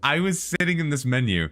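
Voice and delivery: high, loud and rushed; telling it while still rattled; frantic retelling. Real, not acted.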